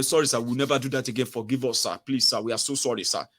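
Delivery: quick, understated pleading; mock begging. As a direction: imitate a submissive apology, tumbling out. Acting out citizens begging the powerful.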